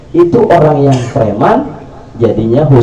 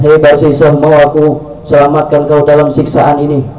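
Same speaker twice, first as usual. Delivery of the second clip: devil's call; 2 semitones higher than usual. Acted. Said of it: "kata setan".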